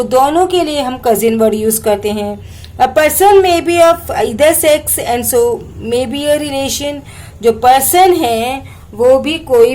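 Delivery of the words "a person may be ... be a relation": slow, deliberate reading of an English textbook line. Shown as a demonstration. Teacher reading the textbook slowly to students. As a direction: read each English word out slowly for the class.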